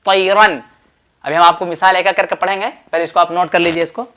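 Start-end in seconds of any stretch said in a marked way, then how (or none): 0.0-0.6 तैरन with a distinct final N, no nasal hum; izhar pronunciation. Shown as a demonstration. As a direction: sound the final noon of तैरन clearly. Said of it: "नून को जाहिर करके पढ़ेंगे".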